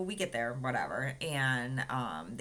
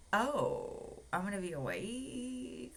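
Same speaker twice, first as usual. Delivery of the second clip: alarmed disbelief, higher; surprised question; 7 semitones higher, slower than usual. Retold or imitated. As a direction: react like the news just landed. Learning she stays awake.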